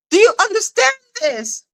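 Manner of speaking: high, giddy cartoon-crazy voice; a lightly hammed-up madwoman; mock crazy voice.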